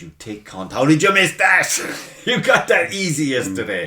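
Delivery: loud, high, berating himself over a miss; exasperated inner voice; self-scolding. Retold or imitated. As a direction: snap at yourself like an angry coach.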